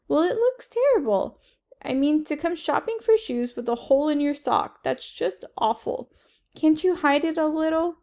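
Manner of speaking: a touch of a fussy mother's voice; fretting mother. Acted. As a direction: play the embarrassed mom, fussing. Mother frets about the hole.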